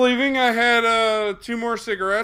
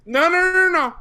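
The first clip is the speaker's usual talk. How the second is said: emphatic no; 11 semitones higher, 5 dB louder than usual. Real, not acted. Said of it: "correcting friend".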